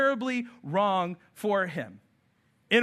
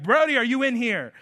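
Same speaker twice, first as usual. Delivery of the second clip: hammed-up searching; 4 semitones higher than usual. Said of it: "I try to, like, build it up".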